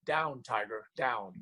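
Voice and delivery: low, soft mock reprimand; imitating a woman's amused rebuff; teasing put-down. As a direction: retell it as a cool, quiet tease. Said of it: "looked down at me with a smile".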